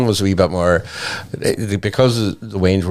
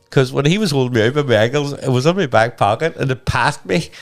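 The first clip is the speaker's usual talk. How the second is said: ordinary talk, nothing marked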